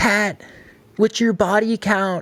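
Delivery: put-on super squeaky, high little kid's voice. Speaker retells a thirteen-year-old kid calling to him at the bench, in a super squeaky voice. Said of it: "In this like super squeaky voice".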